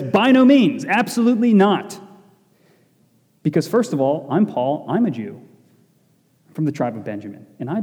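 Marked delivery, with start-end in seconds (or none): 0.0-2.0 resounding denial. Retold or imitated. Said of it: "Paul resoundingly says".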